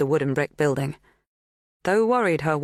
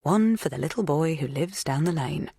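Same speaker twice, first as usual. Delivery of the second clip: lightly lilting recited rhyme; nursery rhyme. A narrator's reading. Rhyme popping into a worried man's head, lightly lilting. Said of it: "part of a nursery rhyme popped into".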